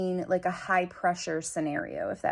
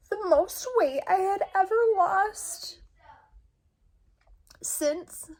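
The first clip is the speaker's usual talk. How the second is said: high whisper, close to crying; tearful whisper; 11 semitones higher, 4 dB louder, slower than usual. Real, not acted. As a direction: breathe it out through tears. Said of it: "I'm so emotional".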